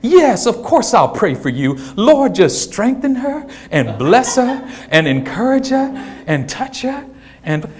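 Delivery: slow, soft phone prayer; mock praying mom. Pastor mom prays for Sister Carmichael, slow and soft. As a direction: pray slowly and softly, drawing out each request.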